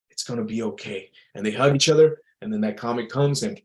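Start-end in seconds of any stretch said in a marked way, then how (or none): 0.1-1.1 quiet, tender promise; soft reassurance. Retold or imitated. A man turning to his loved ones at the end, quietly reassuring.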